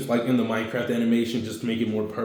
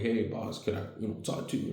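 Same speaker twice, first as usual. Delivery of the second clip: timid hushed ask; 8 dB quieter than usual. Acted. Big guy approaches timidly.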